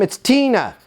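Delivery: high, exasperated resident voice; mock exasperation, high and insistent; upset resident. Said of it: "current resident that's upset".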